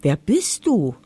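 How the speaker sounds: lightly voiced curious sparrow; a light chirp on the question. A narrator's reading. Sparrow asks the strange dog who he is, lightly chirping. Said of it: "piepste der Spatz".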